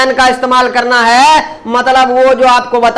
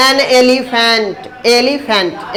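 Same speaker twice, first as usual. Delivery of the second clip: slow demo reading; much slower than usual. Shown as a demonstration. Teacher reading an example aloud, slow and clear. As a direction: slowly read an elephant, each word clear. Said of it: "अब यहाँ है".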